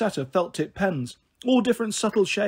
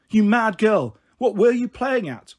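louder, higher telling-off from a scared mum; scolding shout; 4 semitones higher, 5 dB louder, slower than usual. Retold or imitated. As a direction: snap at the girl for giving you a fright.

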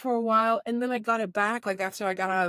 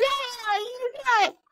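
very high, drawn-out mock cry of delight; high-pitched gleeful exclamation, imitated; excited Irishman; slower than usual. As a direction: squeal it like a thrilled acquaintance. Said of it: "like, from Ireland".

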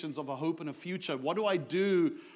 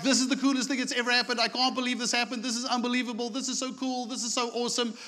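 excited gushing; 5 semitones higher, much faster than usual. Pretend. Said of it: "We would be like".

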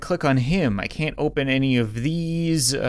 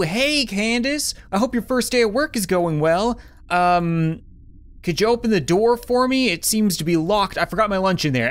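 sweet fake innocent voice; 3 semitones higher than usual. Pretends to be a coworker.

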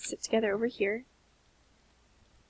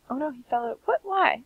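mock cry; 3 semitones higher than usual. Real, not acted. Sim fell out, crying.

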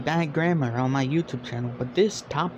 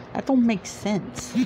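baffled; 6 semitones higher, slower than usual. Real, not acted. Baffled reaction.

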